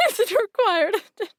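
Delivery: laughing mock echo. Real, not acted. To the newcomer, echoing his question while laughing. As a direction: tease them by echoing through laughter.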